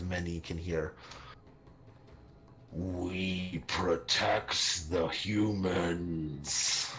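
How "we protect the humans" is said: slow, drawn-out monster yell; deep monster voice. Acted. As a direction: growl it out like a beast. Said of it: "in my monster voice".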